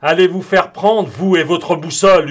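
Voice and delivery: high, loud angry retort; defiant yell. A narrator's reading. Australian defies the commander's ultimatum, defiant yell. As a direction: hurl it back as a yell. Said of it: "hurla l'Australien".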